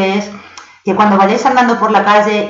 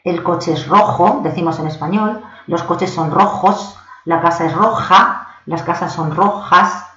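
slow Spanish examples. Shown as a demonstration. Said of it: "En inglés el adjetivo es el adjetivo".

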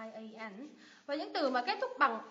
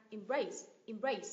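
slow "Embrace", weight on BRACE; second-syllable stress; 2 semitones lower, slower than usual. Shown as a demonstration. Teacher repeating the verb "Embrace", stress on second syllable. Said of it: "nhấn âm tiết thứ hai".

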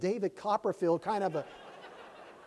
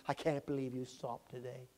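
softer, lower teary disbelief; tearful echo; 6 semitones lower, 11 dB quieter than usual. Retold or imitated. Young man repeating it softly, teary. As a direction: say it again hushed with tears. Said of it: "eyes filled with tears".

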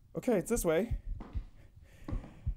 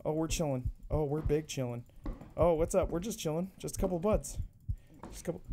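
hushed; 7 semitones lower, 9 dB quieter than usual. Real, not acted. Calming himself in the dark.

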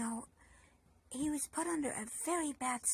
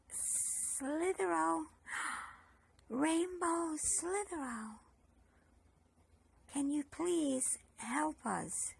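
slow drawn-out call, higher; 4 semitones higher, slower than usual. Shown as a demonstration. Leading the children in calling for Rainbow Slithero, drawn out. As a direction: stretch each word out like calling across a field. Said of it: "Let's shout".

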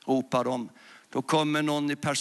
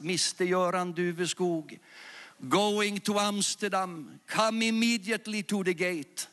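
airport announcement; 4 semitones higher than usual. Retold or imitated. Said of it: "de ropar på högtalaren".

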